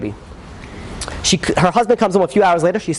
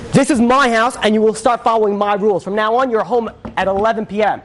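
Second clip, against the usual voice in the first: raised pitch, laying down the law; retold scolding, firm and higher-pitched; stern father; 5 semitones higher than usual. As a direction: act out an angry father setting rules. Father lays down house rules.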